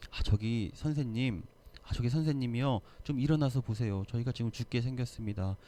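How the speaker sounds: a hint of a meek, courteous request; overly polite. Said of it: "이렇게 얘기하지 않았겠죠". (지나치게 공손하고 조용한 부탁)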